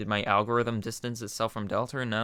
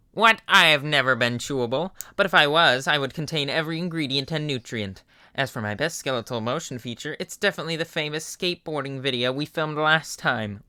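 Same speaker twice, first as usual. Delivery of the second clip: louder indignant skeleton; hint of huffy Papyrus; 3 semitones higher, 4 dB louder than usual. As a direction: insist as the proud skeleton. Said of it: "Papyrus voice".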